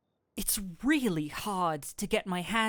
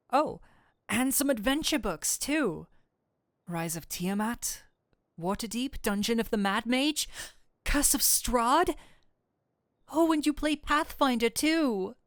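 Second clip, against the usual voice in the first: rising higher and louder with glee; a gushing nerd, rising higher and louder; building excitement; 4 semitones higher, 4 dB louder than usual. Acted. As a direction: get more thrilled with each title. Listing the books excitedly.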